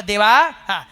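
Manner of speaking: calling out "देवा" loud, then a pleading plea; begging the saint not to leave; God clinging to his devotee, imploring. Acted. God begging Tukoba in story.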